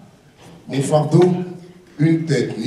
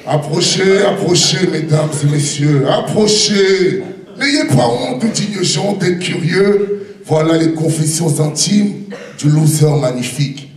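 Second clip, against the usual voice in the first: singsong market cry. Acted. Fairground barker call.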